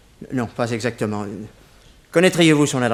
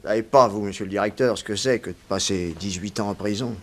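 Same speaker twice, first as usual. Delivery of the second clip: low, softer, bitter reproach; bitter and quiet; 6 semitones lower, 5 dB quieter than usual. Acted. Prisoner quietly reproaching the director for eighteen years lost, bitter. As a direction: pull back and say it low, full of bitterness.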